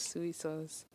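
soy said as "suey"; local "suey" pronunciation. Shown as a demonstration. Host shows how locals say it, Soy as "suey". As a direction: say Soy as two syllables, "SOO-ee". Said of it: "We say suey".

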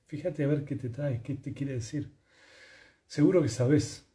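usual speaking voice

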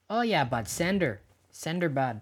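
lightly put-on Canadian accent. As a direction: riff as a laid-back Canadian bud. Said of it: "In real life, it's".

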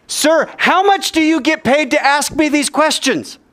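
high, slow, bold call; bolder voice. Acted. Rabbi calls back to the sentry, boldly. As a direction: call up boldly, drawing out the words. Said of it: "with a little more boldness in his voice".

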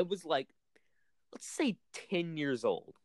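hushed spooky storyteller whisper. Acted. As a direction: whisper it like a campfire tale. Whispers the scary story opening.

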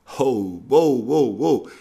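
high, loud stop; startled, calling to stop; loud alarmed whoa. Real, not acted. Alarmed reaction.

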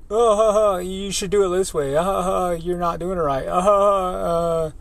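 high, condescending laughter through the words; mocking laugh. Boss mocking the new welder, condescending laugh. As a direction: laugh down at him while correcting.

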